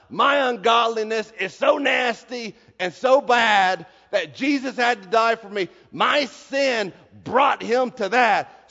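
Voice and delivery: loud, slowing sermon delivery; preaching at full force. Acted. The preacher driving home his sin to the congregation, booming.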